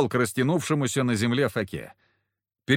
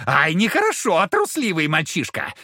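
taunting devil; 4 semitones higher than usual. Acted.

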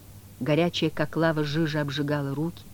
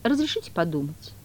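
meek. Acted. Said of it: "смиренно ответил кот".

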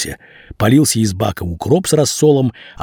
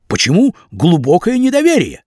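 high, aggrieved pleading; pleading young man; 7 semitones higher than usual. A narrator's reading. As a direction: plead innocence in a higher voice. Vasya argues with boss.

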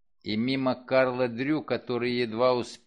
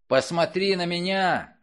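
"Посмотри" shouted high and loud; angry shout; 6 semitones higher, 4 dB louder than usual. Acted. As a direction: yell "Посмотри на меня" in fury. He repeats the command, enraged.

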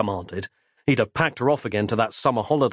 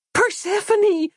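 high ringing call of a name; a little girl crying out with grave authority; wise-sounding cry; 3 dB louder, slower than usual. Acted. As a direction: call her off, high and commanding. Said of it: "cried Christabel again, in an even more wise-sounding voice".

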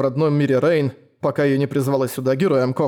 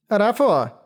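creature cry; 7 semitones higher than usual. Acted. Creature cries its name.

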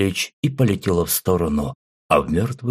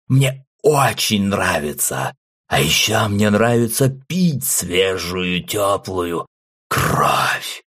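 mad laughing voice; 3 semitones higher, slower than usual. Acted. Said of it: "продолжая смеяться".

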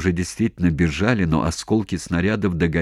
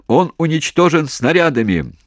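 loud, higher yell; shouting; 9 semitones higher, 5 dB louder than usual. Acted. Commander shouting into phone. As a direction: keep yelling down the line. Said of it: "снова закричал в трубку".

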